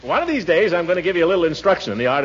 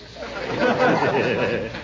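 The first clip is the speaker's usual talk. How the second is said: chuckle. Acted. Laughs after his saying.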